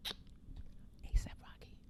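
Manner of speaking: whispered, drawn-out star name; soft, awed whisper of a name; hushed reveal. Retold or imitated. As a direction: whisper it slowly like a stunned reveal.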